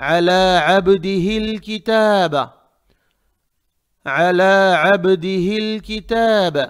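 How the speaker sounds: drawn-out model recitation of अला अब्दिहिल किताब with squeezed ayn; correct throaty ayn. Shown as a demonstration. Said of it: "आइन को हमजा".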